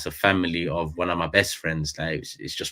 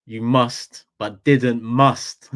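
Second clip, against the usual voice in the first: quoting Saeed; 3 semitones higher, 8 dB louder, much slower than usual. Retold or imitated. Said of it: "Man, man said".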